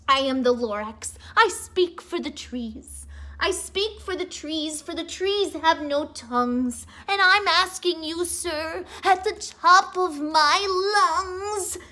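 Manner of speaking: a hint of a sharpish bossy Lorax. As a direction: lightly voice the stern Lorax. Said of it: "he spoke with a voice that was sharpish and bossy".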